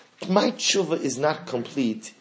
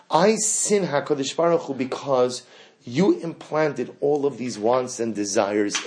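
accusing plea to God. Acted. Pleading with God, holding him accountable.

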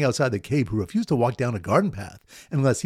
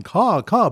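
higher, louder mock bird caws; bird caller's caw; 5 semitones higher, 5 dB louder than usual. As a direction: imitate a bird call in two caws. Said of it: "bird caller is weeping and going".

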